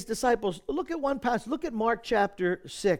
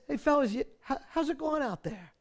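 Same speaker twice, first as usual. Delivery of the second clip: friendly greeting; 4 semitones higher, 4 dB quieter than usual. Retold or imitated. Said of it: "He says".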